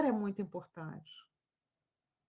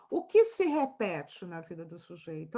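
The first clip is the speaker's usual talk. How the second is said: O que se repete na vida do sujeito? said lower and rising; low rising question; 6 semitones lower than usual. Shown as a demonstration. Professor repeating the key question in a lower voice. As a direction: lower voice, lift the end of the question.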